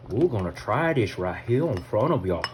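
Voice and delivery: Louisiana accent with swinging pitch. Real, not acted. Cook about to taste on camera, Louisiana accent. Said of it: "Got that Louisiana accent going".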